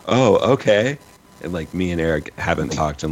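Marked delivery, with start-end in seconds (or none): 0.1-1.0 startled surprise. Retold or imitated. Surprised quote.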